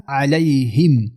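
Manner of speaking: slow علیهم closing on a plainly sounded m; clear m. Shown as a demonstration. Teacher showing izhar in علیهم, slow clear m. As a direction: finish علیهم with lips closed on a distinct m.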